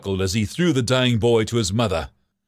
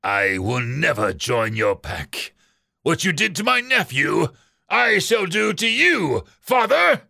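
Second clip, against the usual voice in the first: snarled defiance; 6 semitones higher than usual. Acted. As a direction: start slow and seething, climb much higher to shout father. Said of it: "Raider snarled".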